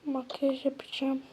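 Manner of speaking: secretive whisper; whispered plan. Acted. Fısıltıyla plan. (gizli fısıltı)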